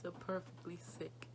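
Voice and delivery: breathy broken whisper, barely voiced; a hushed, grieving whisper; tearful whisper. Real, not acted. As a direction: let the words fall to a whisper through grief.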